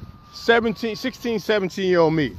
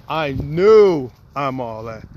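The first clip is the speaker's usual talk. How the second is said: cocky; 5 semitones lower, 5 dB louder, much slower than usual. Retold or imitated. Cocky reply to the girl.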